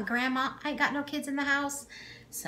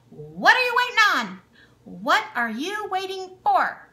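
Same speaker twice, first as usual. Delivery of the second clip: playful urging; 7 semitones higher, 9 dB louder than usual. Real, not acted. Playful call to check channels.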